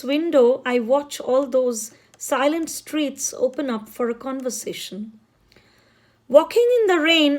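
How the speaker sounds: measured poem reading, each line launched firmly and let fall; poetry recitation. Acted. Reading a poem about Kolkata to listeners, poetic recitation. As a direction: recite the poem with deliberate phrasing.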